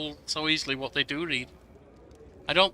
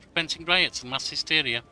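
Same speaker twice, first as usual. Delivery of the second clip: put-on urgent young advisor; 3 dB louder than usual. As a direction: read it as a worried young advisor bringing bad news. Reads advisor Lindsay's dialogue aloud.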